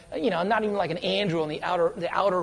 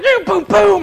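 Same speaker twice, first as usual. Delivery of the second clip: high, loud excited yelling; mock battle shout; 12 semitones higher, 11 dB louder than usual. Preacher retelling a game fight, yelling. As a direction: shout it like a gamer mid-fight.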